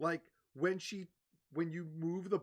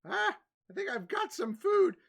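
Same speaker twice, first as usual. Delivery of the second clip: put-on charmed old lady; 10 dB louder than usual. Old lady compliments the bard, sweetly doting. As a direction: coo over the clean young man.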